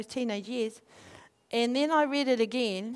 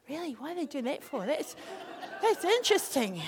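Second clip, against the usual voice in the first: quiet, laughing disbelief; amused disbelief; 2 semitones higher, 4 dB quieter than usual. Retold or imitated. Teasing the engaged couple, amused disbelief. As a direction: chuckle through the question.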